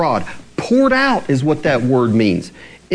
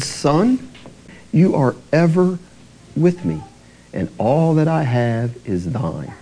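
kindly; 3 semitones lower than usual. Retold or imitated. Father answering his angry son, mildly kind. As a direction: ease into it like a loving dad. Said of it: "He spoke kindly to him".

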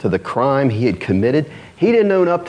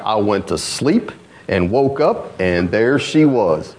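slow, with a laugh; half-laughing excuse; Adam shrugging it off with a chuckle; lightly voiced Adam, amused; 4 semitones lower, slower than usual. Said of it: "He's like".

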